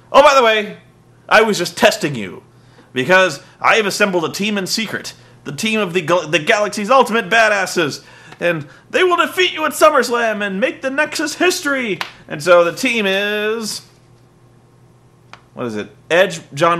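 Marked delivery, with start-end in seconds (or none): 0.1-12.0 boastful reveal. Retold or imitated. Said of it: "he goes".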